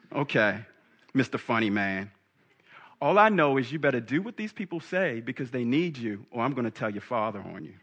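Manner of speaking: sarcastic, then a quiet threat to tell; Mary. Acted. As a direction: lay down the law to your son, voice lowering. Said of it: "I can imagine Mary turning to her son".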